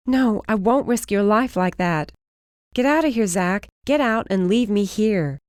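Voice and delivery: high insistent cry; high desperate get out; desperate insistence. Acted. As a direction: push him away with your voice. She pushes him away.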